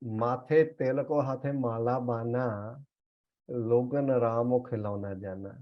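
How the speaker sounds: slow, measured recital of a sacred verse; slow scripture recitation. Shown as a demonstration. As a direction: draw out each word of the verse. Reciting another scripture line.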